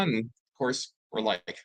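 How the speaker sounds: ordinary talk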